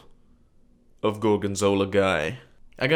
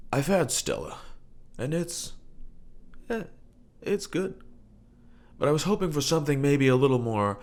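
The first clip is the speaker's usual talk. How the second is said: lightly voiced fussy beer snob, pitch climbing high on good; snobby customer; 3 semitones higher, 3 dB quieter than usual.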